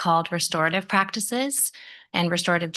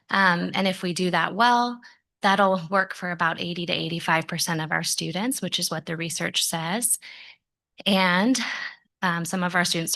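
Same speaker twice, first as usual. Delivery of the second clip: breathless after running up stairs; out of breath. Real, not acted. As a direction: speak winded, catching your breath. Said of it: "sorry, I'm out of breath 'cause I was".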